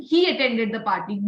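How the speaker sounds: "he" leaned on, the rest falling away; stress on he. Shown as a demonstration. Teacher confirms the meaning, stressing "he". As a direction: make "he" the peak of the phrase. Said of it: "it is about that person".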